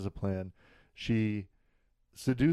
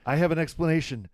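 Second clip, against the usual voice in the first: hammed-up frantic, higher, louder and fast; melodramatic; 7 semitones higher, 5 dB louder than usual. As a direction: play it like a soap-opera schemer cornered. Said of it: "everything's so melodramatic".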